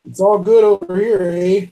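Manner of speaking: put-on playful Canadian accent with a tagged-on eh; tease, leaning on the Canadian eh; mock Canadian. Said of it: "I'm stuck on the A part".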